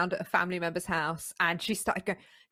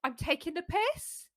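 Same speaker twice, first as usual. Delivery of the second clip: mock apology; 10 semitones higher, 5 dB quieter than usual. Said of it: "she was like".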